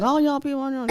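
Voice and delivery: laughing Southern accent imitation; laughing southern drawl. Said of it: "southern drawl".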